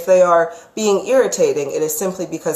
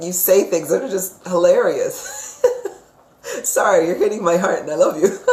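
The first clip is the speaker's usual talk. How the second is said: laughing. Real, not acted. Psychic moved and laughing at her reading.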